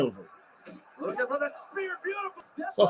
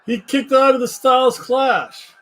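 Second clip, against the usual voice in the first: excited; 9 semitones higher, 4 dB louder, slower than usual. Real, not acted. Stunned by a wrestling kickout.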